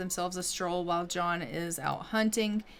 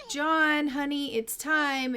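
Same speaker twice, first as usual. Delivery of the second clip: high, louder call to her husband; mock wife in labor; 6 semitones higher, 3 dB louder than usual. Wife in labor telling John it's time, high and loud. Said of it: "she is like".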